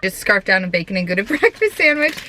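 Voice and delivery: talking through giggles about a breakfast sandwich; laughing through it. Real, not acted. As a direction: laugh while admitting what you just ate. Giggling about her greasy breakfast.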